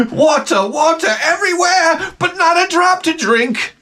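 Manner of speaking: very high, shouted mock recitation; mock poem recital. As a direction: declaim the verse in a piercingly high voice. Imitates poem played on endless loop.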